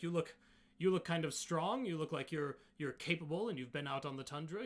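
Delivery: hint of an eager challenger; appraising Goliath. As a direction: size up the outsider with keen interest. Goliath sizing up the outsider.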